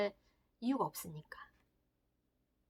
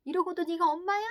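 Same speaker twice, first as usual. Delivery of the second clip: self-reproaching; 7 semitones higher, 4 dB louder than usual. Acted. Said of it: "막 자책을 하는 거예요".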